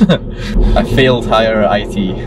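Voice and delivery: slow, laughing through the words. Real, not acted. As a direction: chuckle while admitting it.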